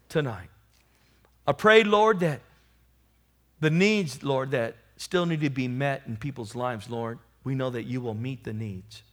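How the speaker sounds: earnest spoken prayer to God. Acted. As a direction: pray it humbly before the church. Leads the closing prayer.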